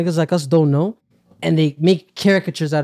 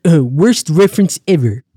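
slow and loud, laughing through it; mock Comic Book Guy, slow and smug; Comic Book Guy impression; 6 dB louder, slower than usual. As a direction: drag out worst reference ever. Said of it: "my favorite Simpsons impression".

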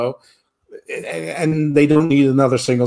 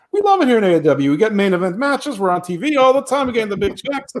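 mock gushing; 8 semitones higher, faster than usual. Ricky Starks quoted bragging.

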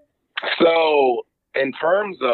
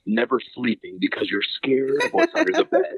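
ad read. Acted. Mock commercial break on podcast.

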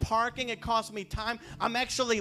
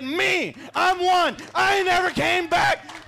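louder and higher, proud triumphant cry; triumphant shout; 7 semitones higher, 7 dB louder than usual. Retold or imitated. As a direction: hit it like a victory line. Triumphant reveal to mocking officer.

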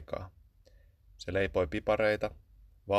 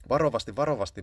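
higher, louder calming caution; restraining; 4 semitones higher, 5 dB louder, faster than usual. A narrator's reading. Cat urging the shrew to take care with the parcel. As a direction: hold him back gently but urgently. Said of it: "Maukka toppuutteli".

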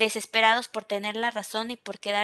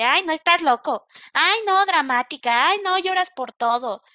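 mock dismissive scoffing; 4 semitones higher, 4 dB louder than usual. Dismissive remarks acted out.

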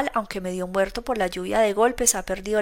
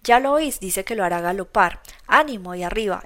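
mocking. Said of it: "exclamó una voz burlona".

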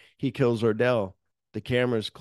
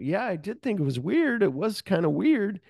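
mocking echo; 10 semitones higher than usual. Ordell mocking Lewis's excuse.

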